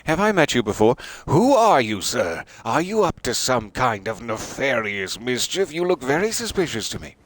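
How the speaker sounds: loud, high, playfully accusing stranger; mock suspicious questioning. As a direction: grill the newcomer with mock suspicion. Greeting viewers as a suspicious stranger.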